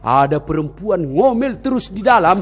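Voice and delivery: aggrieved jinn voice; a touch of monster grievance; complaining jinn. Acted. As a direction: complain as the put-upon well demon. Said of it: "Saya iblis jin penunggu sumur".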